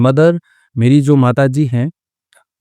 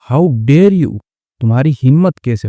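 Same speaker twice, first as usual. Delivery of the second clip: mild mock outrage; 3 semitones higher than usual. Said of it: "she screamed".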